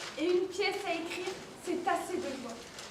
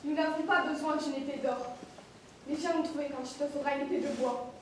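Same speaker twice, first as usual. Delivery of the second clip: quiet dignity; 3 semitones lower, 6 dB quieter than usual. Acted. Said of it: "Je l'ai bien fait, non?".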